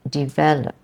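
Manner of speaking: develop with di- sound; develop, first vowel i; correct develop. Shown as a demonstration. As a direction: develop as di-VEL-op. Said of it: "It's the E sound".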